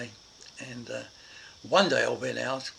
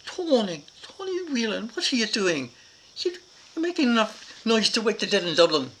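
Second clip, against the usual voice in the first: put-on higher, louder call of the child's name; mother yelling; 9 semitones higher, 7 dB louder than usual. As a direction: shout across the yard like an alarmed mum. Mother runs out hearing screaming.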